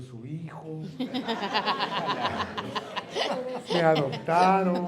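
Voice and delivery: mock panic through laughter; laughing. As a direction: laugh out the dreaded thought. Laughing while voicing fear.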